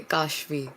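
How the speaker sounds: "Kashvi" with a long first A. Shown as a demonstration. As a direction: draw out the A in "Kashvi". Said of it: "it's a long A".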